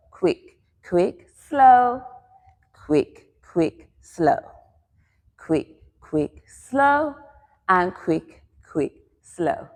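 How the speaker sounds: spaced cue words timed to dance steps; short quicks, a longer slow; quick-quick-slow count. Shown as a demonstration. Teacher dances the three weight changes, counting in rhythm. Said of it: "so you move slower continuously through it".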